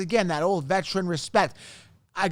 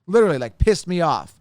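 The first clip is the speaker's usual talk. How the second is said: real irritation, louder; louder, annoyed emphasis on pissed; 4 dB louder than usual. Real, not acted. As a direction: hit it hard, fed up.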